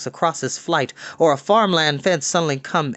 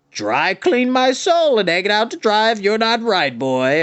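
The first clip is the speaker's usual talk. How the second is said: put-on higher, louder, emphatic old-timer voice; voiced Mountrout; 7 semitones higher, 4 dB louder than usual. Mountrout agreeing with the boy, emphatic higher voice. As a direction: swear to it heartily.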